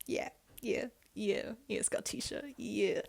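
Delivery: hushed imitating whisper of flirting; soft mock whisper to a crush. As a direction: whisper it like a sweet-talking guy. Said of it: "What did he say?".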